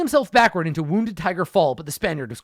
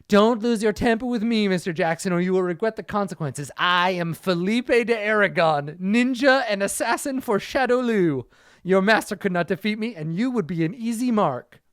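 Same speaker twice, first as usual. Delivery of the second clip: boastful ninja; 4 semitones higher than usual. Acted. Spanish ninja boasts, higher.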